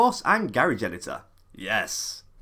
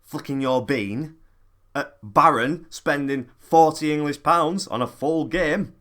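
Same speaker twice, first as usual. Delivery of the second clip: angry rant; 4 dB louder than usual. Acted. Opening rant clip.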